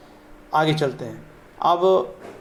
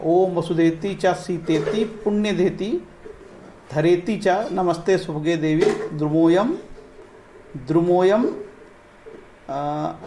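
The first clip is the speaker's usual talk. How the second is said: slow mantra recitation; slower than usual. Acted. Teacher reciting a tree-planting mantra for viewers, slow chant. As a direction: chant each Sanskrit word slowly and deliberately.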